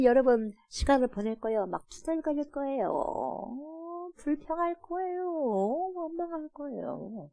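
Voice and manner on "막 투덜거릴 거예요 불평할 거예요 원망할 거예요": soft, slow grumbling tone; mock grumbling. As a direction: sound put-upon and sulky. Mimicking grumbling people. (투덜거리듯)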